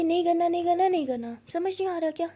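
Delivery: loud, high stubborn refusal; sulking partner shouting no; sulky outburst. Acted. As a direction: refuse like a pouting child.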